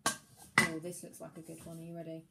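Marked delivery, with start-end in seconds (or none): 0.1-0.8 surprised oh. Pretend. Discovering a word in stew.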